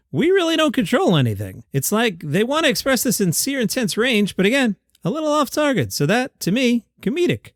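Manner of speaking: lightly voiced Jerry Seinfeld; a hoarse, half-hearted Jerry; Jerry Seinfeld impression. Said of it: "told Barry".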